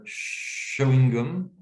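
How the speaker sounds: "chewing gum" drawn out as "cho-ing gom"; very slow "chewing gum" with an o; first pronunciation variant. Shown as a demonstration. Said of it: "on va pouvoir le trouver à".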